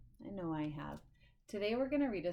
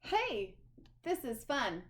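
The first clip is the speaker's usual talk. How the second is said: happy bird; 4 semitones higher, slower than usual. Acted.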